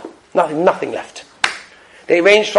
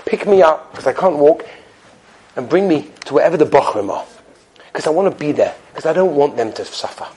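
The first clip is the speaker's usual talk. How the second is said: sincere; 3 semitones lower than usual. Retold or imitated. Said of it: "He said".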